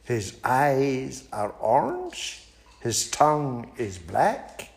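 high, polite little mouse turning down an invitation; small and prim, declining sweetly; a high, prim mouse fibbing to the owl. Acted. Mouse describes.

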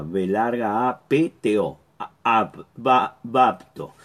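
deletrea B, A, P, T, O y luego di "bapto"; "bapto" letra por letra, luego por sílabas; deletreo didáctico. Shown as a demonstration. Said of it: "así como suena". (deletreando "bapto" para que se entienda cómo suena)

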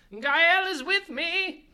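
high, slow, ringing call to the god; booming battle cry. Acted. Cleric calling out to the fish, booming battle cry. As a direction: proclaim it like a holy war cry.

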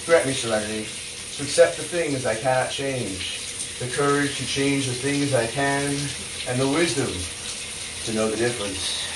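prayer. Acted. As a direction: pray it earnestly, line by line. Serenity Prayer recited thrice.

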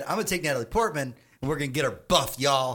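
a hammed-up Taika quote; imitating Taika. Retelling the director's plan in a lightly put-on voice. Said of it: "Taika Waititi said".

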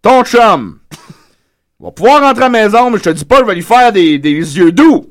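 pleading father. Acted. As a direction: beg your daughter to come home. Father pleading with daughter on-air.

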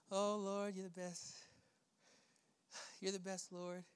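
hushed, low, tender murmur to God; intimate prayer. Shown as a demonstration. Preacher showing congregation how to rest in God, hushed. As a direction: pray softly as if alone with the Lord. Sitting at the Lord's feet.

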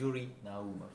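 Naumov in Yuri Naumov said na-OO-mov; emphasis on second syllable. Shown as a demonstration. Guest modelling his full name, Naumov stressed on second syllable. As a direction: give Yuri Naumov the Russian way, surname stressed mid-word. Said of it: "with emphasis on the second".

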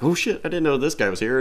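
high mock surprise; a startled kid blurting it out; surprised Spider-Man. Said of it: "that he's like".

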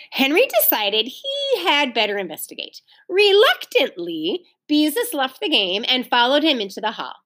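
animated, lilting storybook narration; story reading to children. A narrator's reading. Teacher reads the story to children, lively narration. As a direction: read expressively to young listeners.

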